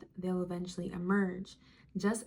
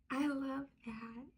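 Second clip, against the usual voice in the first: soft savoring; 3 semitones higher, 7 dB quieter than usual. Real, not acted.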